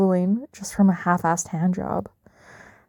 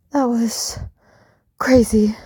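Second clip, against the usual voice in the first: whisper; slower than usual. Acted. Breathless afterglow.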